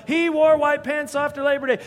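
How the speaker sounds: high, loud tattling whine; mock accuser piping up loudly. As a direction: point the finger, outraged. Soldiers pointing fingers.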